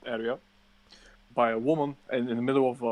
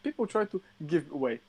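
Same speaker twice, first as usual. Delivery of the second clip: outraged, squeaky high disbelief; rising incredulous rant, much higher; 9 semitones higher than usual. Real, not acted. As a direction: pitch shoots way up in disbelief.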